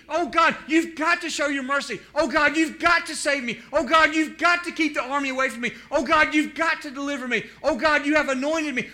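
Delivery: high, loud desperate pleading. Retold or imitated. Preacher voicing David pleading in the cave, loud and high. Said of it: "I'm pleading".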